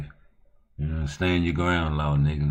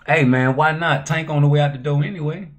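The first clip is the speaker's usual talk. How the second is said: excited; 9 semitones higher, 8 dB louder than usual. Real, not acted. Hyped talk about Tank losing.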